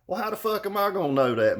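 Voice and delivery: mock exasperated retort. Retold argument on phone.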